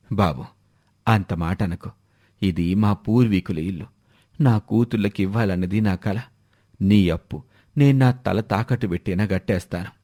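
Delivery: an indebted father pleading to keep his house; pleading old man. Acted. Debtor pleads with moneylender.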